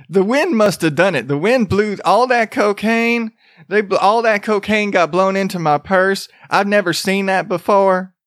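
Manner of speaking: lightly put-on Florida accent; attempted Florida accent. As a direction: protest innocence in a vague Florida accent. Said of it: "what a fucking Florida accent".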